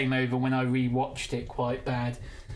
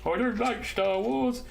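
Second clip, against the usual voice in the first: imitating her; 8 semitones higher, slower than usual. Quoting her at home.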